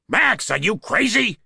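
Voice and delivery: high, alarmed cry; wailed. A narrator's reading. Cop crying out during a knife fight, high wail. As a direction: cry out in disbelief, pitched well up. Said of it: "I wailed".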